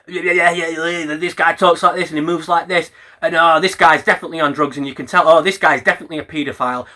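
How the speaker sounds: fast, dismissive mocking voice; mocking Ethan. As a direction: rattle it off like a gossip. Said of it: "all you do is talk about".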